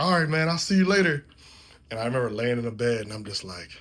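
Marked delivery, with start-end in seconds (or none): 0.0-1.3 casual goodbye. Retold or imitated. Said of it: "And I was like".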